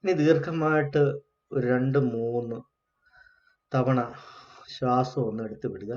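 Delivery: unhurried meditation guidance with long pauses; guided meditation. Real, not acted. Teacher leading the class to watch their breath, guided meditation. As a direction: guide them gently through the breath, pausing between phrases.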